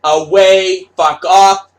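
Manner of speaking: shouted curse at the fans; angry yell. Retold or imitated. Artist yelling at fans, angry shouted curse. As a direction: bark it out, repeated.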